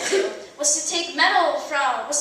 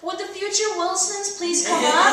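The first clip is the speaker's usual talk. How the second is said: giving-up judge; 5 semitones higher than usual. Retold or imitated. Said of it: "he said".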